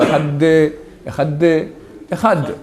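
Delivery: "Ehad de" with a separated heavy d, then clean "Ehad"; wrong then right Ehad. Shown as a demonstration. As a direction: show the wrong D, then fix it. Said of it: "il ne faut pas dire comme ça". ("Ehad de" faux, puis "Ehad" juste)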